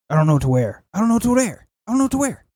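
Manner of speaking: imitated fluster climbing to a high pitch; flustered whining. Man walking off flustered, rising imitated whine. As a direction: repeat it, pitching up into a mock-panicked whine. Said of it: "he gets flustered".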